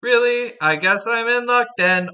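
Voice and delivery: lightly voiced robot; robotic voice. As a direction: sound like a machine reading words. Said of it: "I'll just do a robotic voice".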